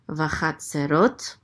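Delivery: Vachatzerot slowly, leaning on the final rot; stress on last syllable. Shown as a demonstration. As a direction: draw out Vachatzerot and land on rot. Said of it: "accent on the last syllable".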